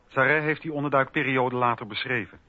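usual speaking voice

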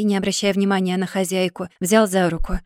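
usual speaking voice

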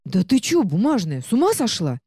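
высоко, с возмущением; взвизгни от негодования; возмущённый взвизг. Acted. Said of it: "возмущённо взвизгнул". (возмущённо взвизгивает)

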